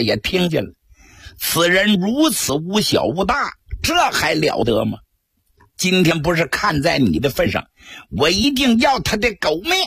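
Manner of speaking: angry scolding. Acted. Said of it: "他把满腔的怒火撒到公孙福身上".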